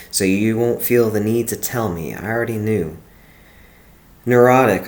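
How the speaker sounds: steady, earnest poem read; reading her own poem aloud. Acted. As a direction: read the verses out with care. Reads her old poem aloud.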